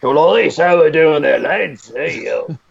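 bad British accent drifting; wandering British accent. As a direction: call out to a mate in a slipping UK accent. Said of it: "I always end up Australian".

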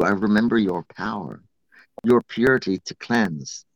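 spoken prayer to water. Shown as a demonstration. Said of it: "Do the ha breath".

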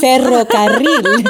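Ferrocarril with long trilled r's; rolled r. Shown as a demonstration. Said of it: "Say, say something".

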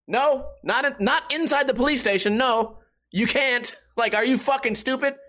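high, incredulous scolding; exasperated refusal. Retold or imitated. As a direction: shut down a stupid question. Acted exasperated answer to dumb question.

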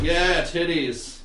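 slow, drawn-out dudebro approval. Retold or imitated. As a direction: stretch it out like a satisfied dude. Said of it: "for me and Steve to be like".

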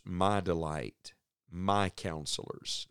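"my" set apart, slow and dropping; slowly single out each "my"; stress on MY. Shown as a demonstration. Preacher turning to the last verse, stress on "my". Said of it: "is this emphasis on the words".

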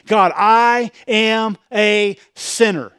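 slow, earnest and humble; humble confession. Retold or imitated. Preacher voices the tax collector's humble prayer, slow and earnest. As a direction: lay it down heavy and sincere. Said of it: "What did he say?".

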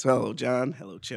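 podcasting voice. Pretend. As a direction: greet the hosts in an affected podcast voice. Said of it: "I put on the podcasting voice".

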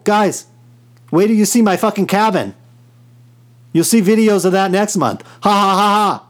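gloating mock brag with cackles; smug showoff laughing at you; unhinged villain. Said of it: "I can get on here and say".

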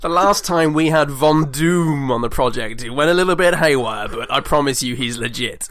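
reassuring backer. Acted. Acting out man vouching for Doom.

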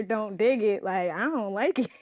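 joking aside breaking into a laugh; amused, laughing. Real, not acted. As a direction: say it through a rising giggle. Joking slang reading, laughs.

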